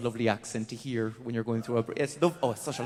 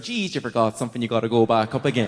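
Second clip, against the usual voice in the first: Southern Irish accent; 4 semitones lower, 3 dB louder than usual. Shown as a demonstration. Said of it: "to do the Southern Irish accent".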